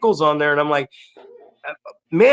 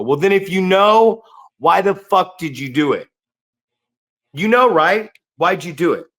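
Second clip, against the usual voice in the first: raised, higher exasperated retort; exasperated challenge; 3 semitones higher, 3 dB louder than usual. Retold or imitated. Coach retelling how he confronts a trainee, exasperated. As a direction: challenge them, pitch jumping on each question.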